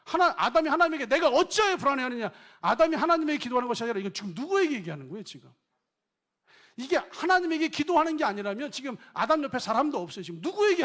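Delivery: loud, high fervent sermon voice; full-force preaching. Acted. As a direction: press the question on the congregation.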